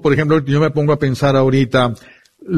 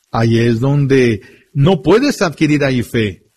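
ordinary talk

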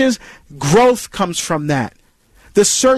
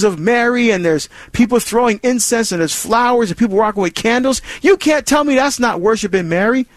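mocking accusation; 3 semitones higher than usual. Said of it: "those questions may be hostile".

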